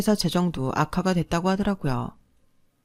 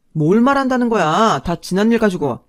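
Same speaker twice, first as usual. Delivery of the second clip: alarmed protest; 3 semitones higher, 7 dB louder than usual. A narrator's reading. Ex-husband protests her threat.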